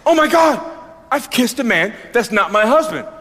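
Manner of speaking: mild hammed-up surprise; mock shock. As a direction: play the shocked wife. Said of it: "she's shocked".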